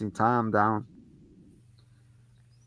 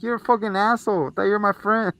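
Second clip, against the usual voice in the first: put-on kid yelling at the doll; 9 semitones higher than usual. Boy yells at the doll.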